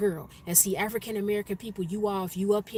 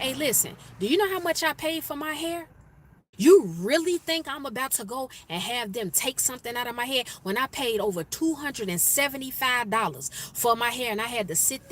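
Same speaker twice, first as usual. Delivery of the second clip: higher-pitched, mildly indignant retort; indignant comeback; 4 semitones higher than usual. Retold or imitated. Employee protesting to her manager over costly braids, indignant. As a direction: act out a fed-up protest over the cost.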